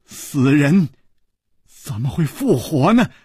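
halting, broken disbelief with long pauses; stuttering, struggling to get each phrase out; bitter laugh, stammering. Acted. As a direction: stumble over the words in wry disbelief. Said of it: "楚留香苦笑着说".

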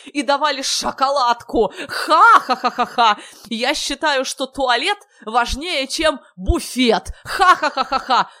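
high, loud, whooping with staged cackles; hysterical clowning glee. A narrator's reading. Silly guest revels in toilet fantasies, high raucous glee. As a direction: crow each phrase and burst into loud ha-ha-ha. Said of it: "Дурилов весь сотрясался в конвульсиях".

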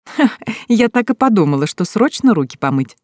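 light mocking laugh. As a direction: tease him through a laugh. Девушка со смехом за дверью. (со смешком)

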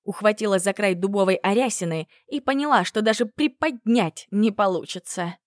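ordinary delivery

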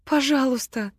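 high, moaned plea; moaning plea. Acted. Мила begs Агата, moaning high. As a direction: moan it out in despair. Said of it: "простонала Мила".

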